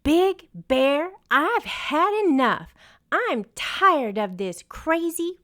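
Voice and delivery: high, loud exasperated yell; wind yelling. A narrator's reading. Wind yelling at Big Bear, fed up and loud. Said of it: "She yelled".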